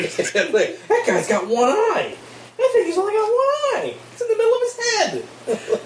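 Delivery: high, laughing disbelief. Real, not acted. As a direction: squeal it through laughter. Laughing at one-eyed character.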